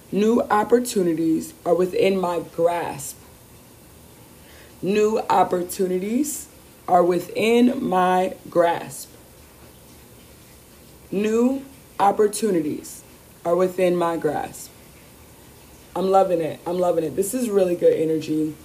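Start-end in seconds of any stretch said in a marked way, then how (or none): 0.1-3.2 affirmation. Shown as a demonstration. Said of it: "The affirmation for this week". 4.8-9.1 affirmation. Shown as a demonstration. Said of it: "The affirmation for this week". 11.1-14.7 affirmation. Shown as a demonstration. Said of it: "The affirmation for this week".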